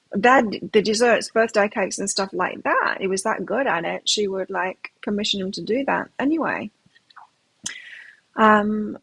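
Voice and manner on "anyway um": whispered aside. Real, not acted.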